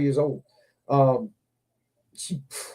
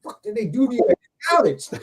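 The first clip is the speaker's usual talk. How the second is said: retold amazement; 2 semitones higher than usual. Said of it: "I was like".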